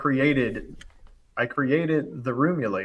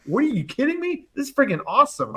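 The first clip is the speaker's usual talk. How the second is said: pitched way up and fast, jazzed disbelief; fired up; 12 semitones higher than usual. Retold or imitated. Pitching his idea to the bosses, fired-up excitement. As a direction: sell it like you can't believe they doubt it. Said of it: "I'm like, I'm fired up".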